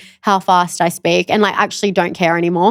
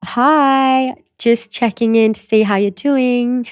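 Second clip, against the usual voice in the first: role-play voice note; 3 semitones higher, much slower than usual. Pretend. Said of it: "Okay, I'll do".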